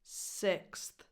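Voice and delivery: "Sixth" with a short relaxed i; lax-vowel "Sixth". Shown as a demonstration. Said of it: "the vowel is a lax I".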